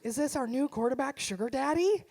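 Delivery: son's voice jumping high and loud with eagerness; excited son. Retold or imitated. Son greeting mom home from a date, high and loud excitement. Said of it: "he's, like, so excited".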